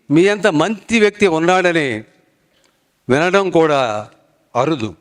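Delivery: measured declamation, pausing after each phrase; poetic tribute recitation. Real, not acted. Alumnus addressing John garu in praise, formal recitation.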